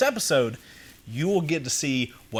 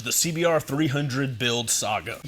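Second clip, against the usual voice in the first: showman intro. Acted. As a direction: welcome the crowd like a ringmaster. Show opening.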